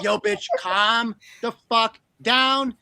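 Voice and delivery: Elsa voice. Retold or imitated. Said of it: "Elsa's like".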